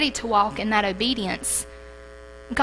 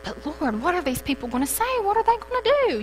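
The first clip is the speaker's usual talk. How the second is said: panicked plea; 7 semitones higher, faster than usual. Retold or imitated.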